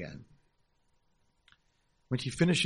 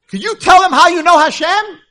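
high, loud, eager plea; excited ask; 20 dB louder than usual. Retold or imitated. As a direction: push the offer with zeal. Excited invitation.

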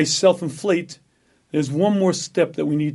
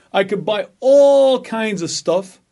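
excited; 4 semitones higher, 5 dB louder, slower than usual. Pretend. Imagining wealth, repeated.

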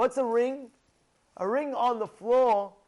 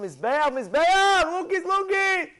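high, loud, jeering rebuke; mocking scold; 4 semitones higher, 5 dB louder than usual. Miriam scolding the altar in the Temple: high, loud jeering rebuke. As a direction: berate the altar with scorn. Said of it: "and she told him".

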